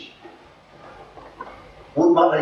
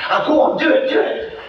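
put-on high, pushy old woman's voice; urging old lady; 13 semitones higher, 4 dB louder than usual. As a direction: press him to do it. Old lady pleads to hear.

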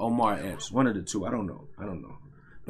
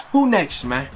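hyped callout; 3 semitones higher than usual. Real, not acted. Gamer celebrates knockout, calling out.

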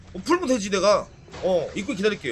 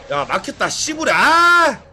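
a retold angry outburst, rising to a cry; mock frustrated yell; 3 semitones higher than usual. Gamer retelling his own curse when blocked, mock angry yell. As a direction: imitate raging at being blocked. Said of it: "라고 하면서 바로 이렇게".

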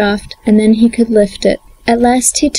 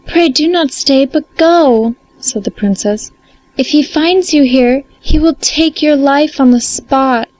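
high, anxious princess pleading; cartoon princess; 4 semitones higher than usual. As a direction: urge him to flee, voice raised high. Princess warns the soldier.

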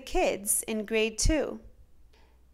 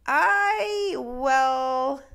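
higher, stammering clerk; flustered clerk; 5 semitones higher, 4 dB louder, much slower than usual. A narrator's reading. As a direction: caught off guard, grasping for words. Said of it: "said the clerk".

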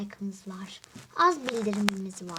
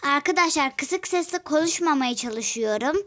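louder on purpose to be heard; shouting; 2 semitones higher, 5 dB louder than usual. Real, not acted. Telling viewers she talks loud so YouTube hears her. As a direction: push the voice out loud. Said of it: "O yüzden çok bağırıyorum".

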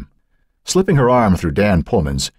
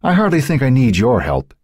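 withering; 8 semitones higher than usual. A narrator's reading. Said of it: "gave him a withering look".

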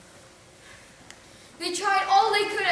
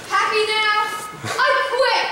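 higher, louder parting shot; fed-up outburst; 5 semitones higher, 5 dB louder than usual. Acted. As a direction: fling it out loud and exasperated. Fed up, quits the performance.

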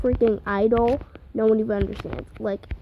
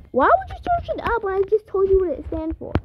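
exasperated; 10 semitones higher, faster than usual. Retold or imitated. Exasperated retort to cousin.

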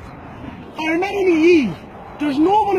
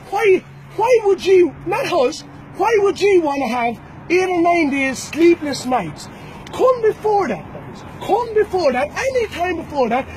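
taunting shout; 5 semitones higher than usual. Real, not acted. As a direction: bellow the dare at them. Taunting rivals to come fight.

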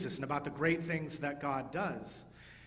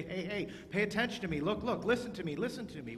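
quick, higher calls for attention; fast excited demo; 5 semitones higher, faster than usual. Shown as a demonstration. Pastor showing children an excited voice. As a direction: rush it like an eager kid. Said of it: "talk really, really fast and really excited".

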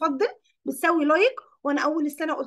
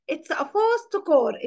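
very slow, each word spelled out for the class; slow dictation; much slower than usual. Shown as a demonstration. Teacher reading the example sentence to her class, very slow. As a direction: dictate it slowly so pupils can follow.

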